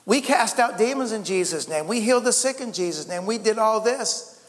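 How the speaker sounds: high, indignant protest; false believers protesting to Jesus, high and indignant; protesting crowd. Retold or imitated. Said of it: "and they're like".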